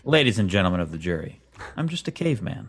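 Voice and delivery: a hint of a folksy courtroom plea; Unfrozen Caveman Lawyer. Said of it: "Unfrozen Caveman Lawyer".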